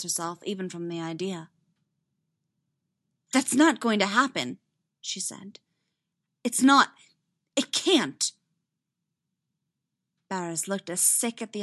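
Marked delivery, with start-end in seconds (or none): 3.3-8.3 higher, louder refusal; alarmed, insistent rejection; emphatic denial. Acted. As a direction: deny it in short bursts. Recoils, denies the idea.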